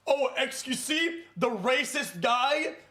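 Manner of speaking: lightly voiced imitation of Sean; Sean impression. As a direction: mimic Sean's sneering question. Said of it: "one more time".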